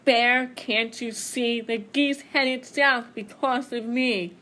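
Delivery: the wind speaking slowly to Bear; slow, grand voice of the wind. Acted.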